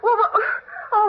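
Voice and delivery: flustered panic. Acted. Husband has fainted.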